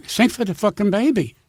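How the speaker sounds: exasperated acted command; retold impatient order. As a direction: lose patience and order it. Same request turns into an order.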